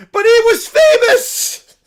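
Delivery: high, loud, slow cartoon bear voice; a cub thrilled by the news; excited little bear. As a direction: squeal it like an overjoyed cub. Bear character protesting.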